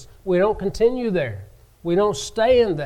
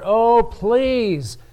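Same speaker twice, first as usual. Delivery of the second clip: mildly acted plea, raised pitch; begging; 5 semitones higher, 3 dB louder than usual. Servant begs his master for time, mildly acted pleading. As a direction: plead lightly, as a retold debtor would. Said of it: "he begged his master".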